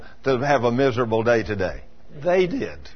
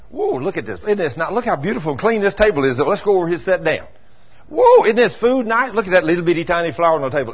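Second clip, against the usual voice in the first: delighted exclamations; 3 semitones higher than usual. Retold or imitated. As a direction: gush over the table and the flower. Voicing a cheerful, grateful man.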